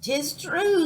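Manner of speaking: high-pitched squawking bird; parrot squawk. A narrator's reading. Parrot agrees with the pirate, squawking. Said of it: "squawked the bird".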